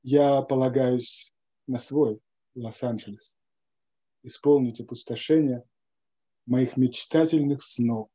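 measured, unhurried recital of a Russian poem; reciting a translated poem; poem reading. Acted. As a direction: read it like verse, letting each line land. Reads his Russian translation aloud.

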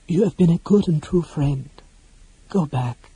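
gently tender. Acted. Mage gently sends his friend home, tender. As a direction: let tenderness soften the farewell a little. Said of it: "A look of infinite tenderness".

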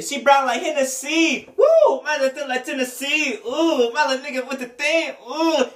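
high, loud strained rap voice; high yelped ad-libs like a rapper; imitating the rapper. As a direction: mimic the rapper's yelping flow. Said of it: "he said".

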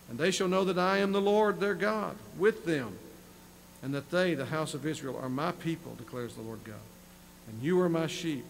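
measured reading voice; scripture reading. Acted. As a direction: read the promise with weight. Preacher reads scripture aloud.

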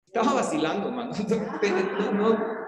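said through a laugh. Real, not acted. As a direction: chuckle while admitting the joke.

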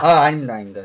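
loud, desperate no, no; frantic denial. Acted. Husband crying out his denial to the shaman, frantic. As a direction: cry out the denial.

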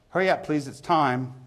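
high, loud call across the pub; barman's closing call. Acted. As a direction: call time on the drinkers. Barman's closing call within the poem.

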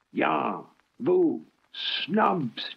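high mocking taunts; jeering. Bulgy jeers at the engines as he leaves, high taunts. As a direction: jeer at them like a schoolyard bully. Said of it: "jeered Bulgy".

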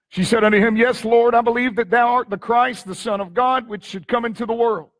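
strong opening, declaimed Bible reading. Real, not acted. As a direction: proclaim the verse to the congregation. Reads scripture in raised voice.

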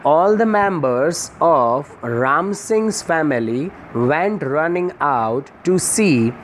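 very slow, careful reading aloud of the English passage; slow textbook reading. Shown as a demonstration. Teacher reading the lesson text slowly to students. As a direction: read each phrase slowly for the class. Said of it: "teacher reads the English text slowly".

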